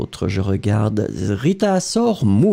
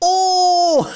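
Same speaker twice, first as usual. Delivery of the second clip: surprised. Real, not acted. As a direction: react with real surprise. Reacting to student's answer.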